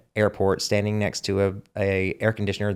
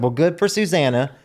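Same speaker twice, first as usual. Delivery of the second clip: raised, emphatic retold comeback; defiant retort; 5 semitones higher, 3 dB louder than usual. Southerner retells defending his accent to an actress, defiant. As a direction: act out proudly standing your ground.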